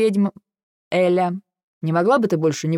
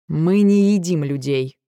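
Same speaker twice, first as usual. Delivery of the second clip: exasperated; 3 dB louder, slower than usual. A narrator's reading. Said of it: "не выдержал дракон".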